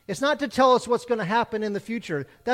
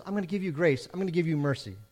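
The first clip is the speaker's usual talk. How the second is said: gentle God; faster than usual. Retold or imitated. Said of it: "and God says".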